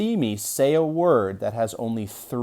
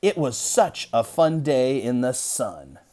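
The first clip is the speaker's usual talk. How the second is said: a little excited; 2 semitones higher, 3 dB louder, slower than usual. Shown as a demonstration. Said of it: "it would read something like this".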